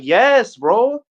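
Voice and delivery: high, emphatic mock outburst; acted exasperated confirmation; retold exasperation. Acts exasperated answer to outraged friend.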